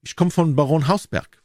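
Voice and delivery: put-on light French accent. A narrator's reading. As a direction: announce it with a slight French accent. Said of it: "sagte mit leicht französischem Akzent".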